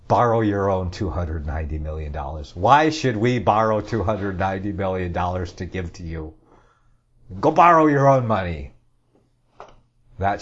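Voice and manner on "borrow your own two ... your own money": mock scolding. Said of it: "I would say".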